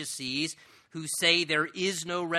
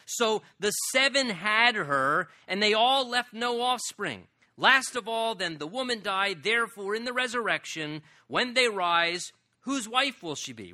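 higher, sing-song mock of the Sadducees' riddle; mocking questioner; 4 semitones higher, 4 dB louder than usual. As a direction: play the scoffers, raised and taunting. Mocking Sadducees' riddle, voiced high.

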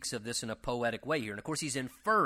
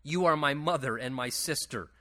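raised, emphatic Bible reading; declaimed scripture, pitched up; 5 semitones higher, 5 dB louder than usual. Acted. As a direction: read the verse out with rising force. Reads scripture aloud to the congregation.

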